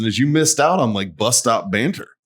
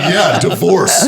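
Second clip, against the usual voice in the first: laughing mock quote; 6 semitones higher, 6 dB louder, much slower than usual. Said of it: "He's like".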